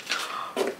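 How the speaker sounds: quiet, breathy gasp; surprised gasp. Real, not acted. Unboxer gasps at the next gift, surprised gasp. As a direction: draw in a soft gasp.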